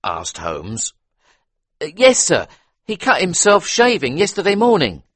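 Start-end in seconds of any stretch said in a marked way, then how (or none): 1.8-5.0 higher, deferential butler. A narrator's reading. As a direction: answer politely as a servant. Butler answers.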